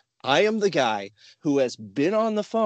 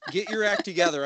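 dad voice; 4 semitones higher, faster than usual. Retold or imitated. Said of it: "and I was like".

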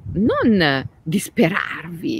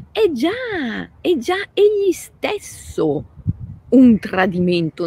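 high emphatic; 7 semitones higher, 3 dB louder than usual. Real, not acted. Rising emphatic preaching.

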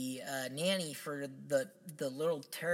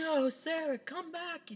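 much higher, overwrought mock plea; hammy stage actor; 13 semitones higher, slower than usual. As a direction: ham it up like a melodrama villain. Quoting Barnabas calling his sister.

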